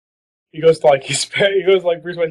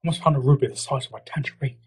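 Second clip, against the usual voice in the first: enigmatic Alfred; 5 dB quieter than usual. Pretend. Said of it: "enigmatic stories about".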